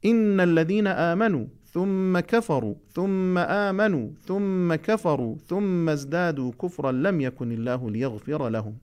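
measured, slow recitation; Quran recitation. Acted. Teacher reciting a verse to students, slow measured recitation. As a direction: recite each word deliberately for the class.

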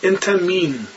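انت مین with a long i in مین; Egyptian min. Retold or imitated. Teacher imitating Egyptians saying انت مین.

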